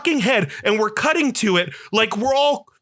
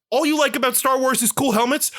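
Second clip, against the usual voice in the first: mocking the studio; 3 semitones higher, faster than usual. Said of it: "they're telling us".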